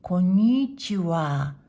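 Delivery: こんにちは English-style, leaning long and hard on the に; slow English-accented こんにちは with a falling stress. Shown as a demonstration. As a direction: mimic an English speaker's accent, stretching "ni" and the final "wa" of こんにちは. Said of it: "英語っぽく言うと".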